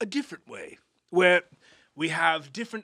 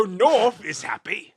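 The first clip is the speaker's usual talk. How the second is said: slow, louder happy demonstration; 3 semitones higher, 6 dB louder, much slower than usual. Shown as a demonstration. Comic explaining compass mode's emotions, happy. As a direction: draw it out brightly to show happy. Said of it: "it changes the emotion of the character".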